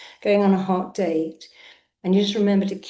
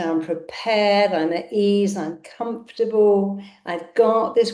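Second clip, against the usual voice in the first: confident affirmation. Shown as a demonstration. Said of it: "No mumbling is allowed".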